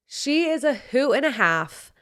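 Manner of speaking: "She is a hoot and a half" pitched high, each word punched; emphatic escalation. Shown as a demonstration. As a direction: lift and stress "hoot and a half". Escalated repeat of her praise.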